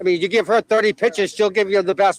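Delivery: broad Boston accent. Real, not acted. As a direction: talk like a Boston local. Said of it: "There's that Boston accent".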